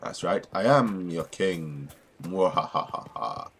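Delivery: slow evil villain gloat with laugh; mad scientist. Pretend. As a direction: ham up an evil cackle. Villain boast after newspaper.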